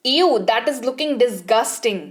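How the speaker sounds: slow, drawn-out ew; slow disgusted ew. Shown as a demonstration. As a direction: recoil from something gross. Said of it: "घृणित चीज".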